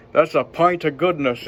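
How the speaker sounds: lightly imitated Irish accent; mild impression of an Irishman's accent. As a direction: quote the Irish guy with a touch of brogue. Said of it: "you know, in his accent".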